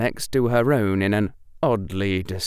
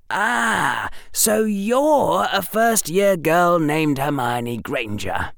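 put-on young boy muffled by scarf; 8 semitones higher, slower than usual. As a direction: talk through a scarf over the mouth. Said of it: "said that young, muffled voice".

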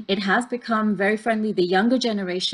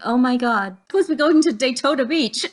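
put-on old lady panicking; 5 semitones higher, 4 dB louder than usual. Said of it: "She's like".

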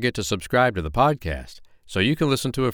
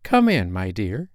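put-on old grandmother voice.

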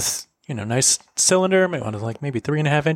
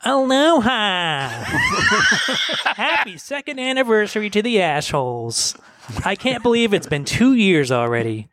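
Michelle Stiles; 4 semitones higher than usual. Acted. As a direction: lightly imitate an absent friend sending anniversary greetings. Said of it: "I'll do my best Michelle impersonation".

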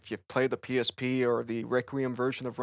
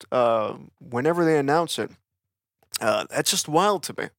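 talking through a mouthful of pigskin; words round a snack, still chewing; chewing while talking; 6 dB louder than usual. Real, not acted. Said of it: "I'm chewing on pigskin".

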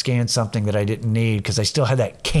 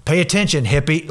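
blurted a little higher, mildly imitating an outburst; 4 semitones higher than usual. Man blurting at a hippie in the grocery store, mildly blurted out. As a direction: lightly re-enact an involuntary outburst. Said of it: "I just blurt out".

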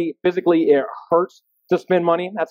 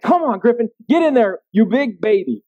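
mild mock yell, pitched higher; retold yelling; 3 semitones higher than usual. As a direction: act out yelling at the son, half-hearted. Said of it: "I start yelling at him".

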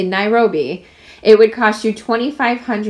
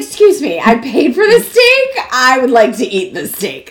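indignant diner. Retold or imitated. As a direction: put the giraffe in its place. Imitating a diner scolding a giraffe.

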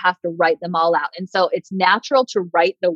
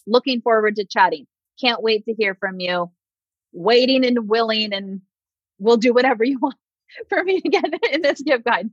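grovel a little, laughing at it; over-eager begging close; mock desperate sign-off; 3 semitones higher than usual. Shown as a demonstration. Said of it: "show up and close that with assertiveness".

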